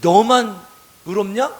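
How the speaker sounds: mock jeer, punched on the first word; acted sarcasm, starting loud; sarcastic retort. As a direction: throw it out as a taunting question. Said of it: "이렇게 비아냥거리죠".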